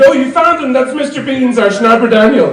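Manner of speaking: doting friend. Retold or imitated. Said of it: "he said".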